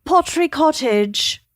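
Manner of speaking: put-on a light British accent on "Pottery Cottage". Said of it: "to say Pottery Cottage in a British accent".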